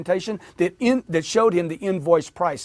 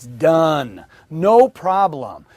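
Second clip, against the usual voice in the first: loud, drawn-out, decisive yes; emphatic agreement; 6 dB louder, much slower than usual. Shown as a demonstration. Trainer showing salespeople how to agree, loud and emphatic. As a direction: stretch it slowly and punch it. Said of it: "Everybody try this".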